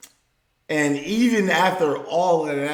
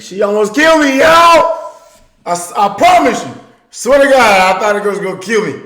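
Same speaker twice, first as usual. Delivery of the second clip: higher, louder, fast disbelief; excited storytelling; 7 semitones higher, 9 dB louder, much faster than usual. Real, not acted. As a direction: tell it like you barely survived. Excited retelling of wife's anger.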